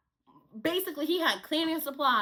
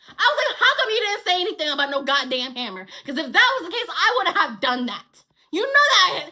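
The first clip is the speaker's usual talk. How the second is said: louder, fast angry ranting; pissed off; 5 dB louder than usual. Retold or imitated. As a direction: rant at him, furious. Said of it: "I'm like".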